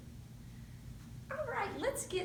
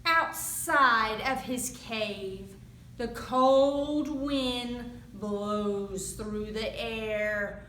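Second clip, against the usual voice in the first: put-on lively read-aloud for young kids; storytime narration. A narrator's reading. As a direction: tell it like a picture book at the library. Reads picture book to children.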